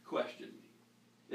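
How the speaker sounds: "question me" dropped soft and slow, almost breathed; hushed urging. Shown as a demonstration. Pastor urges listeners to challenge him, hushed and slow. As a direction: lean in and breathe the words "question me". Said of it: "If I say anything that doesn't sound right".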